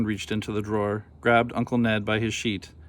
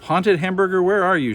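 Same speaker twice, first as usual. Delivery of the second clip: loud high call into the forest; 8 semitones higher, 4 dB louder than usual. A narrator's reading. Nell calls into the dark forest for the hamburger, loud. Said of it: "she called".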